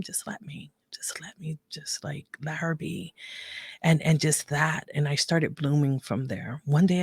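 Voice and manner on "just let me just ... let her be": sinking to a breathy whisper. Real, not acted. Daughter remembering her mother's patience, whispering. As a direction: let the words fade into a whisper.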